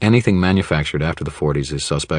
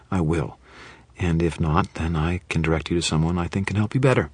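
melodious and friendly. Acted. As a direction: coax her gently to come in. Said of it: "trying to sound as melodious and friendly as I could".

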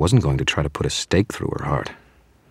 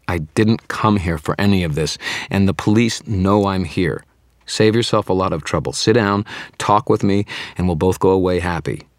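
louder, higher urgent appeal; urgent pleading; 4 semitones higher, 4 dB louder than usual. Acted. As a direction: talk the monster down, fast. Wizard pleads with angry vampire.

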